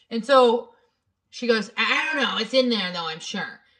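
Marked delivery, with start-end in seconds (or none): 1.7-3.5 put-on defensive, rude, annoyed, curt female voice. Retelling a phone call where a restaurant worker answered: imitating a defensive, rude woman. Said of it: "the woman got defensive and rude and".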